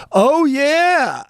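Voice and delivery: high-pitched impression of his mom; imitated mother. Friend mimics host's mom on the ride home, high imitation. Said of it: "I can't do the accent exactly".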